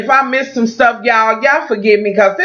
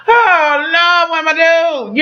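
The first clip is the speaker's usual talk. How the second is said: higher-pitched hammed-up wail of dismay; mock county women; 8 semitones higher, slower than usual. Women across the county reacting to the claw hands, mock higher wail. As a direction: play a panicked church lady, pitched up. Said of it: "every bitch in that county go".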